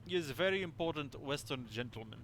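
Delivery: put-on light Russian sailor accent, stress on very; proud Russian seaman. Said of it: "sorry to literally anybody who actually has a Russian accent".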